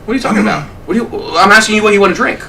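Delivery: quick, mock-innocent deflection; casual, unbothered. Captain deflecting a stunned customer's question, feigned casualness. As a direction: brush the question off breezily. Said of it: "casual as if nothing had ever happened".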